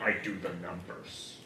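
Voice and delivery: lightly voiced office guy Kevin; a hint of Kevin from The Office; Kevin impression. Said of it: "It's Kevin in the office".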